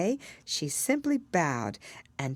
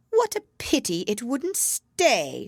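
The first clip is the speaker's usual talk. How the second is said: higher, slow, mildly wistful bird voice; sighing lory; 9 semitones higher, 5 dB louder, slower than usual. A narrator's reading. Lory regrets the mouse leaving, mildly sighing bird voice. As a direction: sigh it out as a regretful parrot. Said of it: "sighed the lory".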